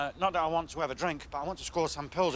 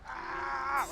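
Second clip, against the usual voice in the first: mock pain cry; 7 semitones higher than usual. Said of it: "parked a car on my foot".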